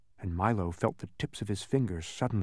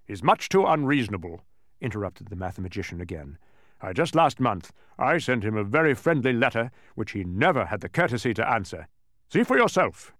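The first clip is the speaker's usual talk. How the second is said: exasperated, raised voice; indignant complaint; 3 dB louder than usual. Acted. Mathematician complaining about an unanswered letter, indignant. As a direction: air a grievance with emphatic bursts.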